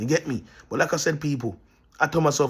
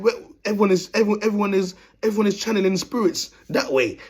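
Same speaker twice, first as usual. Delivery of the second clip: answering in a higher voice; raised voice for the other man; 6 semitones higher than usual. Retold or imitated. Man in the mosque answers the teller, in a higher voice.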